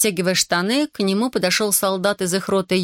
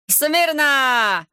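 strained bark; 8 semitones higher than usual. A narrator's reading. Corporal yelling at soldiers, strained bark. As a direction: bark it at the line till it strains. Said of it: "надрывался он".

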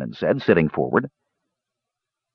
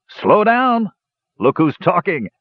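high indignant dwarf outburst; roaring; 11 semitones higher, slower than usual. A narrator's reading. Dwarf challenged by boastful drinkers, roaring back. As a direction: throw it back at them, much higher. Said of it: "the dwarf roared so loudly".

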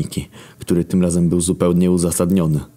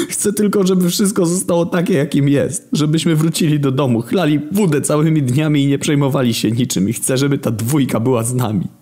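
yelling through tears, much higher; tearful shout; 11 semitones higher than usual. Acted. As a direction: cry it out desperately. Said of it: "wykrzyczałem przez łzy".

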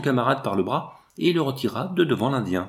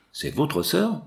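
anxious question pitched higher; 7 semitones higher, slower than usual. A narrator's reading. Garet asking the Indian about the girl, anxious and higher. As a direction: ask it with mounting worry. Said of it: "demanda Garet avec anxiété".

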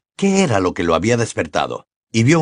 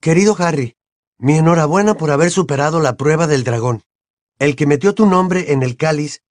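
reading a letter aloud, slightly higher voice; lectura de carta en voz alta; 5 semitones higher than usual. A narrator's reading. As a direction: read the letter out evenly, a bit raised in pitch. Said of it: "leyó en voz alta". (leyendo una carta en voz alta, algo más agudo)

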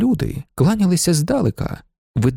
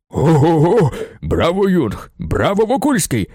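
acted crowd cheers; cheering; slower than usual. A narrator's reading. Crowd cheering Jung and Wokulski, excited. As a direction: cheer them on with gusto.

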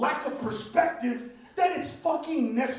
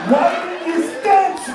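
slow, loud, higher yell; shouted advice; 5 semitones higher, 7 dB louder, slower than usual. Acted. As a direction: bellow it across a room. Yelling advice at president.

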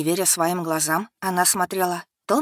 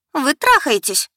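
loud, high, hysterical scream of accusation; истерический крик; hysterical shout; 7 semitones higher, 7 dB louder, slower than usual. Acted. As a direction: shriek it out in hysterics. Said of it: "выкрикнула ... громко и с такой истерикой".

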